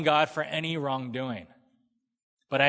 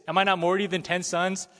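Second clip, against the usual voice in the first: mock husband; 4 semitones higher, 3 dB louder, faster than usual. Acted Elkanah again.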